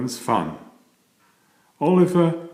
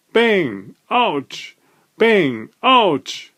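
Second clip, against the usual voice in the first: Ouch! yelped much higher; the hammer hits the thumb again, squeal it; Ouch! jumps way up in pitch; yelp of pain; 8 semitones higher, much slower than usual. A narrator's reading. Repeated hammer blows on thumb.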